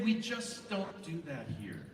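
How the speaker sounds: slow, soft, firm; calm firm reminder. Shown as a demonstration. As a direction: set the rule gently but slowly. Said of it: "you can say".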